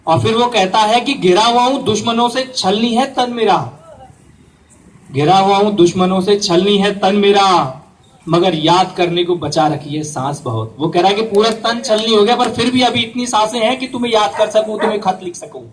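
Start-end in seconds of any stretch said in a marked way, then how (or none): 1.1-10.8 poem recitation. Acted. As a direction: recite the couplet, stretching the line endings. Recites soldier's letter poem. (शायरी सुनाने का अंदाज़)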